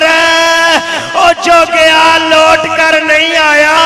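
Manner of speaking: loud wailing plea, rising to a cry. Acted. Little daughter begging her father not to go, loud wailing. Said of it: "رو کے کہہ رہی ہے".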